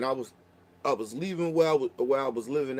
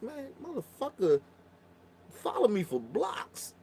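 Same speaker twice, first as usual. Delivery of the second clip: hushed, slow and softer; shaken whisper; 7 semitones higher, 5 dB quieter than usual. Retold or imitated. Telling his homegirl what followed him, slow shaken whisper. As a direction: whisper it like you're still rattled.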